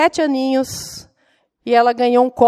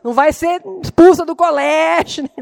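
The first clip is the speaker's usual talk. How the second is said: mock-scolding, rising plea; half-joking anxious demand, pitch climbing at the end; arguing with God; 4 semitones higher, 4 dB louder than usual. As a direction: bargain insistently with the Lord. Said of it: "Depois você fica brigando com Deus".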